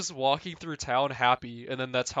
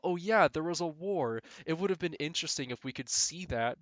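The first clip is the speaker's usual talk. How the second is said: mock realization; 4 semitones higher than usual. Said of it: "And I thought".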